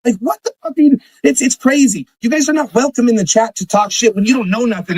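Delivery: pushing back hard, voice climbing; fired up. Real, not acted. Ranting at the chat about the lawsuit threat, fired up. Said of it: "I'm fired up again".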